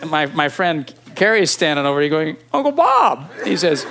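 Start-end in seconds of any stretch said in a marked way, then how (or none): 2.5-3.3 high, louder call of the uncle's name. Retold or imitated. Nephew calling his dying uncle, high and loud. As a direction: call across the room to get his attention.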